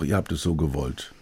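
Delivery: muttered aside. Pretend. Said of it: "denke ich mir auch".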